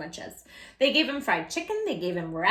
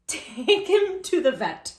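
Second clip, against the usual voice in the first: stern father; 4 semitones higher, 5 dB louder, slower than usual. Acted. Father voiced in story.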